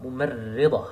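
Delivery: ممرضة with the ra leaned on, kasra vowel; stress on the ra. Shown as a demonstration. Teacher stressing the letter ra for students. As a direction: press the ra in ممرضة. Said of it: "Some stress to the letter Ra with a كسرة".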